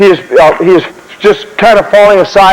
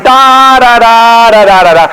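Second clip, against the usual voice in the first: imitated bugle-like "da"; 3 semitones higher, slower than usual. Shown as a demonstration. Imitates sound marching men don't make.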